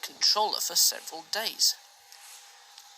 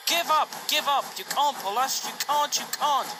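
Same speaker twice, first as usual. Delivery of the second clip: higher, louder chanting taunt; sing-song mockery from the trucks; jeering trucks; 7 semitones higher, 4 dB louder than usual. A narrator's reading. Trucks jeering at James to give up, higher and louder. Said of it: "called the trucks".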